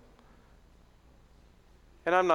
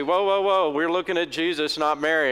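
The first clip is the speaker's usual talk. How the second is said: loud, higher alarmed "whoa"; alarmed Protestant protest; 3 semitones higher, 4 dB louder than usual. Retold or imitated. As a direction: hold them back in mock alarm. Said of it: "Protestants, want to say".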